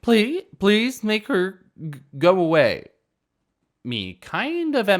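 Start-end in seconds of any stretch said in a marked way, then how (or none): 0.0-2.9 crying. Acted. Drunk girl begging her friend, crying high and loud. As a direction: beg through fake tears. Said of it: "starts crying".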